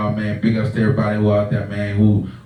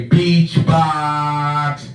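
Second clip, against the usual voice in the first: tongue held, words blurred; holding tongue; 5 semitones higher than usual. Shown as a demonstration. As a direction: say it while gripping your tongue. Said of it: "hold your tongue and say".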